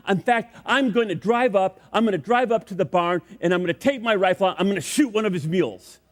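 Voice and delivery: mock-angry threat, starting high and easing; feigned anger. Ballplayer pretends to threaten the landowner's mule, mock angry. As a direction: make a hammed-up threat. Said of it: "I'm so angry".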